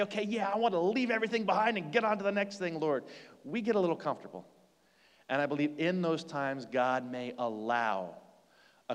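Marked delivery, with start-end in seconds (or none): 0.0-3.0 eager, higher and hurried; mock excitement. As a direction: rattle it off like a keen volunteer. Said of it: "not as excited to say".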